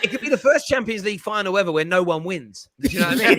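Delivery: chuckling through the words; laughing. Real, not acted. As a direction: talk it out while still laughing. Laughing at own joke.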